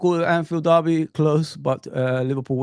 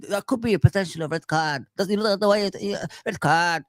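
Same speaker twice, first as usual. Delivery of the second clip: mock calm pundit; 2 semitones higher than usual. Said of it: "the way he talks like that".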